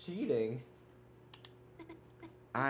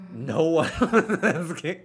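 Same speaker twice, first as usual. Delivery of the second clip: put-on smug girl voice; 6 semitones higher, 9 dB louder, slower than usual. Voicing a game character's lines.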